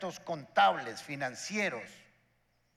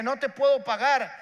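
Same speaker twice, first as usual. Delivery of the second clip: debtor's protest; 4 semitones higher, 5 dB louder than usual. Acted. Debtor pleads he cannot pay.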